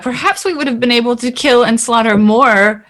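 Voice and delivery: lightly voiced, mildly indignant character; in-character reproach. Player's character reproaching Azaka for leaving them, mild reproach.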